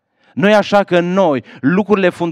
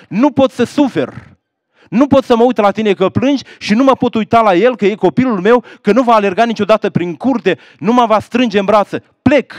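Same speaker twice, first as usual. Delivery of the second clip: raised, strained voice of a husband walking out; husband's anguished farewell; 7 semitones higher, 5 dB louder than usual. Acted. Husband at the door telling his wife, pained and raised. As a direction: cry it out as he leaves.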